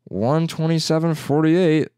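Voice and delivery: slowly reading out a total; slow cashier readout. Retold or imitated. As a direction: spell out the price slowly. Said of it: "And I was like".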